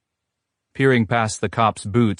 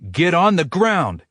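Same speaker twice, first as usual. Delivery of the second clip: high, loud barked order; scream; 10 semitones higher, 3 dB louder than usual. A narrator's reading. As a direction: repeat the order in a frenzy. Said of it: "he screams again".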